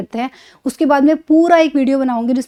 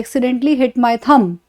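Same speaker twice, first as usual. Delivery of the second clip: "I accidentally hit my thumb" spoken slowly, word by word; slow and clear so students catch thumb; slow example sentence; much slower than usual. Shown as a demonstration. Teacher reads example to students, slowly and clearly. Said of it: "For example".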